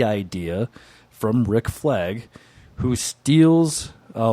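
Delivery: theatrical comic-book narration; dramatic synopsis read. Acted. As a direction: pause for suspense between phrases. Reads dramatic story synopsis.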